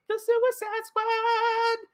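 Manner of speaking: very high, slow drawn-out title; announcer intro. Acted. Host introducing final topic, slow high announcer. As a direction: announce it like a movie trailer.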